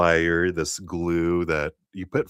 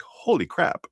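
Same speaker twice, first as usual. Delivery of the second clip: much higher, stunned amazement; amazed; 12 semitones higher than usual. Retold or imitated. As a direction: gasp it out like you can't believe it. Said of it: "will be like".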